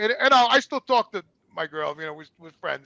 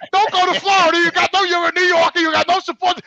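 mock warning; 11 semitones higher, 8 dB louder than usual. Quoting Dave's warning, mocking.

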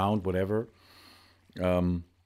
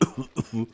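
cough. Real, not acted. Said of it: "I will now recough".

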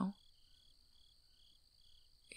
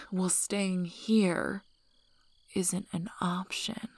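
sudden angry outburst, louder, whisper breaking into force; 4 dB louder than usual. Acted. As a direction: snap at her, furious she wants to stay. Angry outburst after she refuses.

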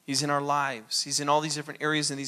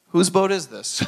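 louder, insistent repeat; pressing question; 6 dB louder than usual. Retold or imitated. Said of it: "Jesus is standing there saying".

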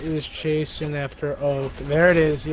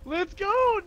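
gym bro; 12 semitones higher, slower than usual. Real, not acted. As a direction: hype cheering, going way up high. Hype during a fight.

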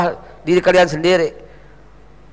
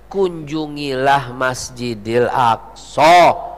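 very slow, lowered pitch; solemn exhortation; 6 semitones lower, much slower than usual. Real, not acted. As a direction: spell out the call, word by drawn-out word. Preacher solemnly gives the solution.

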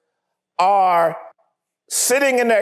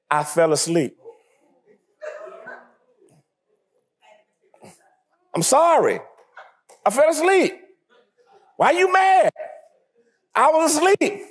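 sleepy excuse; 4 semitones higher than usual. Retold or imitated. Sleepy insider making excuses.

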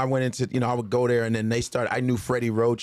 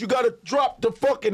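exasperated trainer; 11 semitones higher than usual. Retold or imitated. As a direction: bark the fix at him. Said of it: "He goes".

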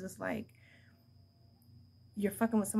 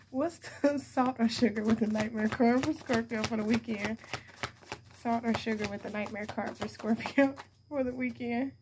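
reading out through giggles; trying to read while laughing. Real, not acted. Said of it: "That's why I'm laughing so much".

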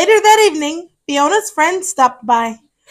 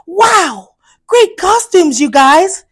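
mild shout; 3 semitones higher, 4 dB louder, slower than usual. Acted. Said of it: "shouted Fiona".

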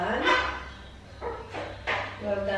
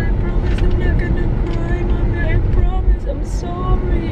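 put-on higher little-girl promise; imitating her daughter; 5 semitones higher, 3 dB louder than usual. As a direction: mimic a small girl holding back tears. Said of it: "Sabi niya".

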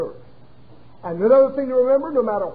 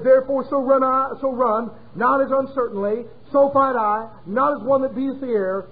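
scripture reading; 2 semitones higher than usual. Acted. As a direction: read the verse like holy writ. Reads scripture aloud.

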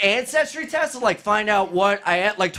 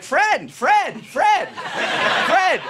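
short, raised calls to a passerby; lightly acted street caller; 6 semitones higher, much slower than usual. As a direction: call out the name insistently, a touch hammed-up. Rabbis calling him on the street.

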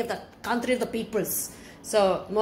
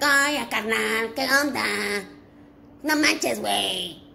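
Mexico City slang; slower than usual. Retold or imitated. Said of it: "Like in Mexico City, it's like".

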